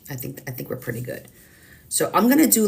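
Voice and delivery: ordinary talk, nothing marked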